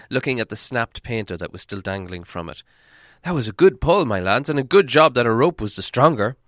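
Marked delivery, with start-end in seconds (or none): 3.2-6.4 loud, hearty dwarf voice; dwarf praising. Acted. Old dwarf to the others, loud hearty praise.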